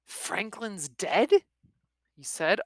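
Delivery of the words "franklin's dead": quizzical. A narrator's reading. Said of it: "gave Smoke a quizzical stare".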